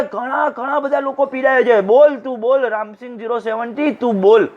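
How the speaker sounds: weight on "ઘણા" and "બોલ", voice lifted; insistent counsel hammering "બોલ તું, બોલ"; stressing each word. Acted. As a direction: press each word of "ઘણા બધા લોકો". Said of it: "દરેક શબ્દ ઉપર ભાર મૂક્યો".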